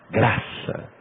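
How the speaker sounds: soft breathy whisper of Graça; whispered word. Real, not acted. Preacher repeats key word.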